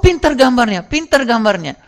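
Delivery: teacher praising. Retold or imitated. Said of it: "kata bu guru".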